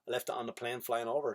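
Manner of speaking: low, quiet attempt at Greek; badly faked Greek accent; half-hearted Greek pupil making an excuse. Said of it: "I can't do a Greek accent".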